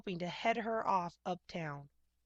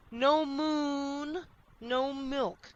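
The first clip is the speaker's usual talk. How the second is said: loud high bellowing cow; stubborn cow refrain; 7 semitones higher, 5 dB louder, much slower than usual. A narrator's reading. Cow Martha confirming her demand, bellowing. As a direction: plant your hooves and bellow it.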